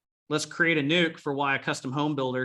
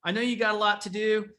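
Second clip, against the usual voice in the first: warm goodbye; 5 semitones higher than usual. Retold or imitated. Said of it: "I'm like".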